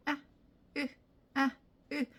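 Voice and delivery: "아" and "으" as tiny separate unstressed vowels; short, relaxed grunts of "아" and "으"; reduced I sounds. Shown as a demonstration. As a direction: drop each "아" and "으" short and weak. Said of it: "I 소리를".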